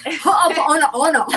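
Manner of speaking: Ho'oponopono squeezed out high and mangled through a laugh; butchered Hawaiian word. Shown as a demonstration. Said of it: "I always butcher it".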